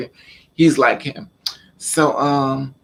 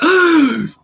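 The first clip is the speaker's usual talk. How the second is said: high, loud mock gasp; retold startled gasp; 14 semitones higher, 7 dB louder than usual. Retelling being grabbed by the father, startled gasp. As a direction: cry out as if suddenly caught.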